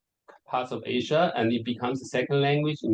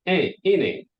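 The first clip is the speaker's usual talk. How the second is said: mock Geordie "Eh, innit?"; lightly voiced Geordie tag question; a hint of Geordie; Geordie accent; 4 semitones higher, 4 dB louder than usual. Shown as a demonstration. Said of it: "they speak Geordie, like".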